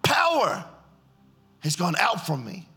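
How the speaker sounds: Jesus insisting power left him; insistent. Retold or imitated. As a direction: stress power with a sudden jump. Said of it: "He goes".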